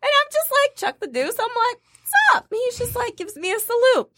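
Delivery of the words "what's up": high, bright "What's up?" call; sudden pitched-up hey; cheery greeting. Retold or imitated. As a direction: sing out a hello to a friend. Greeting a friend in church.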